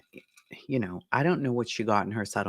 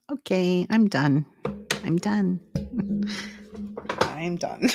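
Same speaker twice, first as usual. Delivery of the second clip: higher, giggling I'm done; higher, laughing surrender; laughing disbelief; 7 semitones higher than usual. Real, not acted. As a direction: give up through laughter.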